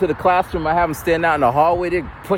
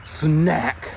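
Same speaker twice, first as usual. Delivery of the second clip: drawn-out, separated words, loud NO; slow, weighty proclamation; big letters; 4 dB louder than usual. Retold or imitated. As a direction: announce it word by word like a headline. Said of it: "write on the board in big letters".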